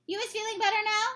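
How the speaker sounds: a lightly voiced kindly giant; friendly giant voice. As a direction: play the big friendly giant, eager. BFG voice in read story.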